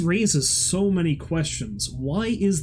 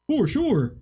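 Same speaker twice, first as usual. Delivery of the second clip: higher, sarcastic repeat of for sure; mocking echo; 8 semitones higher than usual. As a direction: echo it back with mock certainty.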